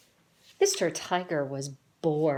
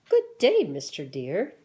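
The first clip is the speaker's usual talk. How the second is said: much higher and louder, prissy proper society voice; prim proper greeting, higher; 7 dB louder than usual. Acted. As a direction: answer in a squeaky, overly proper tone. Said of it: "And they talk like this".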